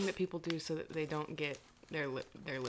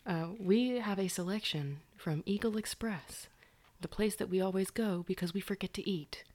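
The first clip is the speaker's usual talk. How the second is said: ASMR whisper. Acted. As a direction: whisper close to the mic.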